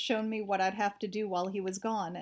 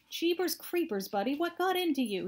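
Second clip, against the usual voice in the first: shouting; 7 semitones higher than usual. A narrator's reading. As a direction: holler from the dark in shock. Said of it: "he shouted from the blackness".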